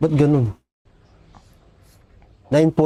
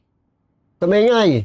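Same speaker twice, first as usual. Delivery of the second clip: mimicked hushing character; 8 semitones higher, slower than usual.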